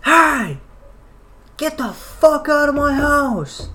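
imitating an angry roommate yelling high and loud; retold scream. Roommate finds strangers on his couch, screams at them. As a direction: belt it out like he's throwing strangers out. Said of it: "just screaming at us".

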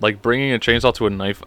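quick, flat mocking repeat of the metaphor. Host mocking the article's bad metaphor, dry and dismissive. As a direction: toss the line back with scorn. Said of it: "That was a horrible metaphor".

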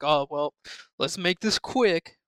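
hurried, uncaring drawl; bored dispatcher. Retold or imitated. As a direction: rush it like you don't care. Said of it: "sounds like she's going on her lunch break".

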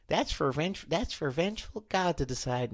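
lightly voiced cartoon housewife; a quiet, tentative impression attempt; Maud Flanders. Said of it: "none other than Maud Flanders".

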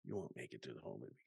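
very soft, fast mutter; muttered under breath. Real, not acted. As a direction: mumble it to yourself. Repeats line much softer.

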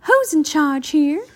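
high, loud demand; booming voice. A narrator's reading. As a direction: boom it out like someone taking over. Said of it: "a booming voice said".

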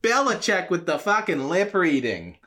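put-on Godzilla ranting in a light Boston accent. Godzilla complaining about Boston, in a light Boston accent. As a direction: grumble it like a mild Boston local. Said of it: "why he's got a Boston accent".

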